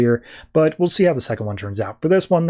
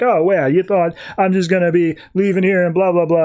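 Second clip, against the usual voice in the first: mocking sarcasm; 4 semitones higher than usual. Tim mocks Stephanie's plan to leave, sarcastic sneer. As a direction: throw his doubt back at her with scorn. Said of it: "And he's like".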